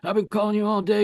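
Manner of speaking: imitating an angry yell at his wife; retold angry yell. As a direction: play the furious husband demanding answers. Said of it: "and he's yelling, screaming".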